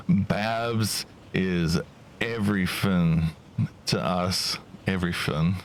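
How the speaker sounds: tentative, broken-up try at Cockney; a light Cockney go at "everything"; attempted Cockney accent. Player testing a line about Babs, shaky Cockney attempt. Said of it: "how to do a Cockney accent".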